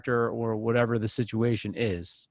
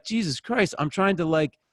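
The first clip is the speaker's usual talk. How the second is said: mock exasperated gripe, pitched up; 4 semitones higher, 3 dB louder than usual. Gym-goer griping about the love songs, exasperated. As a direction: complain over the music, exasperated.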